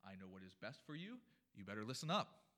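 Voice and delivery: lightly voiced stern mother; a hint of maternal warning, ending loud on "listen up"; mother's scolding. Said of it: "Perhaps you've had this conversation".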